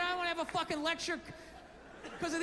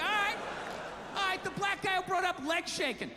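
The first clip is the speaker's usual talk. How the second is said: raised voice; 5 semitones higher than usual. Retold or imitated. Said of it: "And I'm like".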